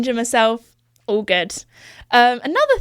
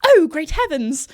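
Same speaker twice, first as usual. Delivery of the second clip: slow, startled posh British gasp of a line; a mock-frightened upper-class British exclamation; lightly hammed-up posh British fright; scared posh British; 5 semitones higher than usual. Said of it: "even more posh with my accent when I'm scared".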